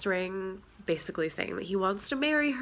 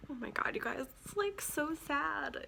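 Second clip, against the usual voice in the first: soft, tearful lament; choked up; 7 semitones higher, 7 dB quieter than usual. Real, not acted. Telling viewers about the book's sad ending, choked up. Near tears over sad book.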